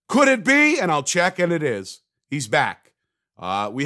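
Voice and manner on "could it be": high-pitched, hammed-up amazed question; theatrical rising disbelief; mock excited hope. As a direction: let the hope leap way up. Repeats the hopeful question, building.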